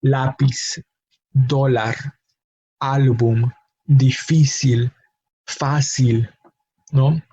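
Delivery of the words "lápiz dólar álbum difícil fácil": Lápiz, dólar, álbum, difícil, fácil stressed on the second to last syllable; each word alone: LÁ-piz, DÓ-lar, ÁL-bum, di-FÍ-cil, FÁ-cil. Shown as a demonstration. Teacher lists exceptions, stressing second to last syllable of Lápiz, dólar, álbum, difícil, fácil. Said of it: "on the second to last syllable".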